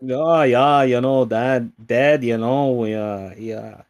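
loud, hammy Midwest dad voice; Midwest accent. Retold or imitated. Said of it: "your horrible Midwest accent".

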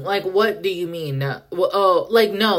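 flustered, halting false starts; stuttering. Real, not acted. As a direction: stumble over the words in disbelief. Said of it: "I'm stuttering thinking about it".

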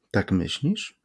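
hushed, uneasy question; anxious whisper. A narrator's reading. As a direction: ask it softly, a touch worried. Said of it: "szepnął z niepokojem Berlioz".

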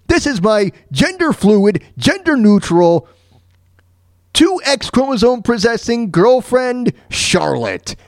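lightly mocking, over-careful introduction; mock family introduction. Man introducing his girlfriend to his family, mock introduction. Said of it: "What the heck is he gonna say to them".

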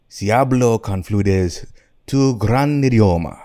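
slow, lightly acted Spanish reply; a hint of a proud foreign leader, unhurried; lightly voiced Mussolini. Mussolini answering Neville in the wrong language, lightly voiced. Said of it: "then Mussolini replies".

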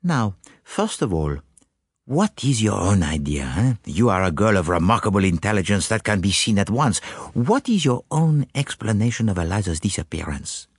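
put-on measured foreign-accented questioning, lightly done; gently butter up the witness; a hint of a courteous continental sleuth; lightly voiced flattering detective. Poirot flatters and questions the maid.

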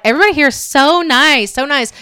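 high, gushing mock praise. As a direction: imitate the gushing visitors. Retold parents praising town.

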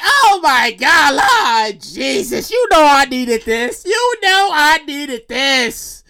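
slow, drawn-out mock church praise; thankful praying. Thanking Lord for small found money, mock praise. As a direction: stretch the gratitude out like testimony. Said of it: "I'm like".

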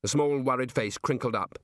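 ordinary delivery, nothing marked

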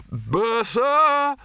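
high loud bellow across the room; sharp high summons; shouting. Acted. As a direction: yell for the bursar. Arch-Chancellor calls for bursar.

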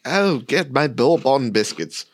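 slow, a hint of a documentary narrator; lightly voiced nature narrator. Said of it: "I've been doing the narrator voice too much".

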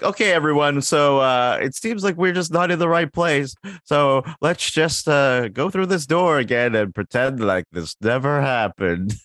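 Kermit voice. Retold or imitated. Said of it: "it's like".

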